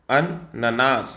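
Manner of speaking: अननास stretched syllable by syllable; dictating the correct spelling to the class; slow spelled demo. Shown as a demonstration. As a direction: pronounce अननास very slowly and clearly. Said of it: "सही answer हो जाएगा option A".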